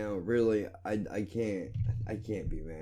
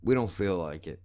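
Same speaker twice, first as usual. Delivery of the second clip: mocking YouTube voice. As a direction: sneer it like a lazy corporation refusing you. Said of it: "for the motherfuckers to go".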